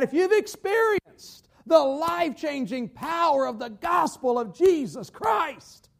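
building into a slow preacher's shout; impassioned, drawn-out proclamation; preaching climax. Real, not acted. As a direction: drive each phrase home, rising to "Christ".

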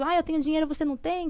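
imitated boast, pitched a little high; mock a bragging rival; mocking taunt. Woman retelling their fights over money, mocking taunt.

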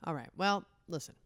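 ordinary talk, nothing marked

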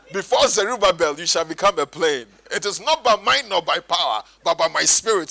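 loud scripture proclamation to food; grandly quoting scripture in jest; mock declamation. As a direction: declaim it like a prophet. Acted scripture over a plate.

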